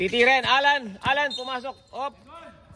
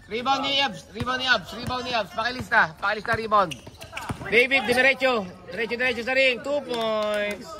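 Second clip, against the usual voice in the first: basketball play-by-play; 2 semitones higher than usual. Real, not acted. Announcer tells scorer to list the rebound, live play-by-play. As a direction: call the drive to the basket live.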